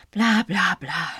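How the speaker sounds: slow, sarcastic drone; mocking what the press wrote; dismissive mockery. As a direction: brush the phrase off. Mocking police statement.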